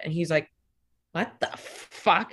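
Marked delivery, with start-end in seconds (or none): 1.1-2.3 slow, drawn-out mock astonishment; stunned disbelief. Boyfriend hearing her frank phone talk, stunned disbelief. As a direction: imitate a dumbfounded boyfriend, word by word.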